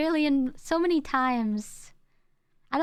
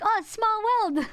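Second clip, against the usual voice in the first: mock surprise; 9 semitones higher than usual. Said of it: "you're just gonna be like".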